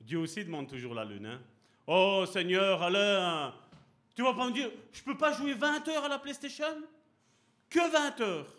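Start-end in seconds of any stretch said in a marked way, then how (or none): 1.9-8.5 high, whiny mock plea; child's complaint. Alain pleading with God for PlayStation hours, high and whiny. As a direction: whine like a kid bargaining for game time.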